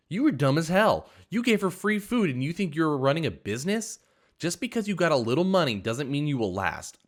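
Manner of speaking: waitress yelling after throwing water; shrill rant. A narrator's reading. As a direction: shout blame at the customer and the boss. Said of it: "She kept chanting those words".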